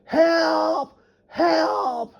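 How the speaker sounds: hammed-up falsetto cry for help; mocking coward. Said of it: "he'd just stand there and be like".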